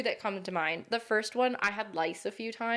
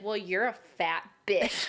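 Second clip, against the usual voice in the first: laughing insult. Pretend. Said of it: "adult version of me would be like".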